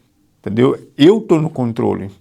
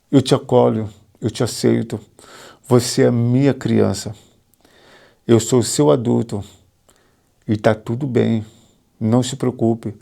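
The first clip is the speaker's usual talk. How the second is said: tender reassurance; 3 semitones lower than usual. Retold or imitated. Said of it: "eu falei assim".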